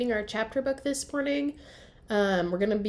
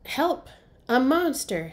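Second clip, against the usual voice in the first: higher, louder cry of pretend alarm; playful alarm; 4 semitones higher, 5 dB louder than usual. Annie teasing her brother Jack, a playful alarmed cry. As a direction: sound the fun fake alarm of a kid. Annie cries out, playing monster.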